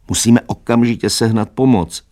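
rally everyone to fetch help at once; urgent. A narrator's reading. Lupina urgently calls for help. (naléhavě, zvýšeným hlasem)

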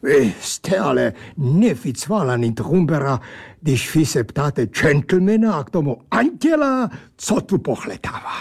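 lightly voiced pompous angel; odd angel voice. Angel character speaks.

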